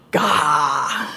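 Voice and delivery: a demo of a breathed-out Gah; breathy gasped Gah. Shown as a demonstration. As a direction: pull in a gasp, then breathe out Gah. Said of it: "And it is pronounced".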